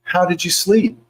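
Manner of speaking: feigned innocence. Retold or imitated. Spouse asking after overnight spending alerts, feigned innocence. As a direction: ask sweetly as if you don't know.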